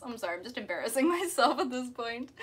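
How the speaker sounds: sheepish Aussie accent with a laugh; Australian accent. Shown as a demonstration. Streamer embarrassed by the demo for viewers, Australian accent. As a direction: apologize in an amateur Australian accent. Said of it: "my, my Aussie accent".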